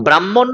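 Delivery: "ব্রাহ্মণ" as brammon, doubled m, no h; wrong pronunciation. Shown as a demonstration. Teacher rejects the common error, mispronounced. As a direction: give the faulty "ব্রাহ্মণ", brammon. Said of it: "নয়".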